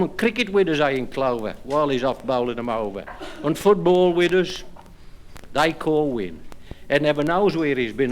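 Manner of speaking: bouncy rhymed delivery to the audience; comic verse recital. Acted. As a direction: land each rhyme like a punchline. Second recited comic poem.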